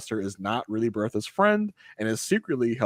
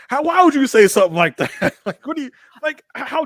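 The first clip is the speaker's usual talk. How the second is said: high, louder laughing outrage; mock outrage; 13 semitones higher, 8 dB louder, faster than usual. Laughing at Marion's remark in a high mock outrage. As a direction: squeal it in mock shock. Retelling own outraged reaction.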